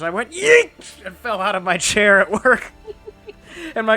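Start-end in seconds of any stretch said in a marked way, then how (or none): 0.3-1.0 high, loud re-enacted "Yeet!" shriek; startled yelp. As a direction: yelp it out as if toppling off a chair. Acts out startled fall from chair.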